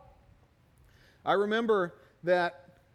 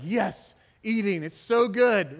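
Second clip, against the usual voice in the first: louder, slowed-down savoring of the food; delighted relish; 6 dB louder, slower than usual. Retold or imitated. Sick man finally eating real food, delighted and louder. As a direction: relish every bite aloud. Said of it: "And I was like".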